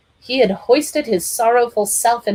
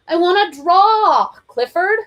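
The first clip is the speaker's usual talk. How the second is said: put-on high small boy voice; high boyish plea; child voice; 10 semitones higher, 5 dB louder than usual. A narrator's reading. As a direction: whine like a little boy.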